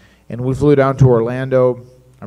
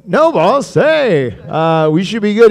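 higher, louder innocent assurance; mock innocent reply; 7 semitones higher, 7 dB louder, slower than usual. Reassuring the boss on the phone, higher and louder. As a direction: play it cool and innocent. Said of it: "And I go".

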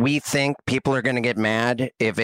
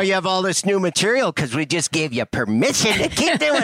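light Southern twang, pitched up; Southern accent; 5 semitones higher than usual. Acted. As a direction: tease them in a Southern accent. Joking, putting on Southern voice.

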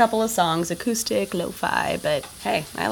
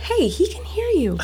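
urgent whisper; 11 semitones higher than usual. Acted. Hushing partner near dog.

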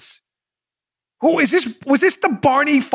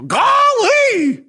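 hammed-up gee-whiz shout, much higher; mock golly; 12 semitones higher than usual. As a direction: squeal it like a wide-eyed kid. Mocking exclamation.

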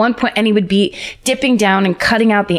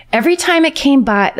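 dreamlike voice; 6 semitones higher than usual. Acted. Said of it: "I picture her voice to be kind of high and dreamlike".

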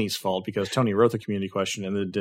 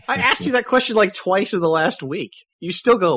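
high, laughing disbelief; gleeful teasing; 8 semitones higher, 5 dB louder than usual. Real, not acted. Co-host ribbing friend about the trackball question, gleeful teasing. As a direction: tease with a high, amused squeal. Keeps gloating through laughter.

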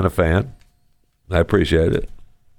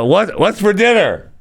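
mock high question; 12 semitones higher than usual. Replaying the dangerous question.

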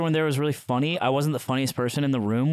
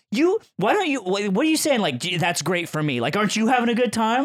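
high, halting mock offence; retold indignation; 5 semitones higher than usual. Ted challenging his lukewarm reply, mock indignant. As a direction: imitate an affronted friend, pitched up. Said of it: "Ted gets so mad at me".

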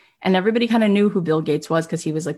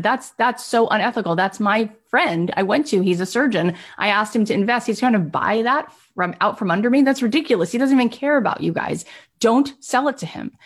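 retold indignation; 5 semitones higher than usual. Man protesting his friend's rival offer, indignant. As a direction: pitch climbing in mild outrage.

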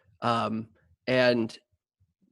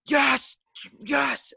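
two high excited yeses; 12 semitones higher than usual. Retold or imitated. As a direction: cheer it high, like the team just scored. Retold cheer at goal.

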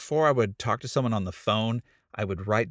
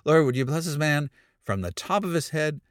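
relieved cliche prayer; 3 semitones higher than usual. Retold or imitated. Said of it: "and so I go".

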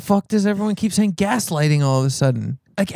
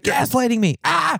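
1 mock outrage; 6 semitones higher, slower than usual. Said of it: "Everyone's like".

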